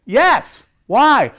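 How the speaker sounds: excited. Real, not acted. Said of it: "answering with emphasis".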